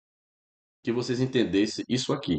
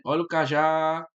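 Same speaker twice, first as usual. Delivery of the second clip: cajá with the final syllable já leaned on, slightly higher; stress on cajá; 3 semitones higher than usual. Shown as a demonstration. Teacher showing students the strong syllable, stressed demo. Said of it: "É só você vender a palavra".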